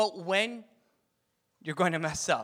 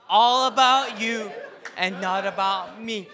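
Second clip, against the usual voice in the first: pastor hams up the motto for the homies, louder and higher; 3 semitones higher, 9 dB louder than usual. Shown as a demonstration. For the homies, pastor chants the motto in a hammed-up street voice, louder and higher. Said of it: "Now for the homies".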